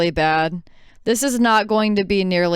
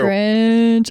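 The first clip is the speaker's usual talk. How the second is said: mock disgust; 4 semitones higher, 4 dB louder than usual. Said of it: "I'm just kidding".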